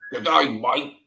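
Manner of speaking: a badly faked Australian accent, barely shifted. Co-host tries an Aussie greeting on air, badly faked Australian accent. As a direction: toss off a weak stab at an Aussie greeting. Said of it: "That sounds crap".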